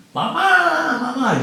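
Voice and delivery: very high mock cry for mother; imitating desperate cries. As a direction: echo the prisoners calling for their mothers. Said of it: "gente gritando".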